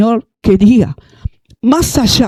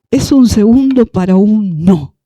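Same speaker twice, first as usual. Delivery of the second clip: slow emphatic line. Shown as a demonstration. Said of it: "Diga conmigo".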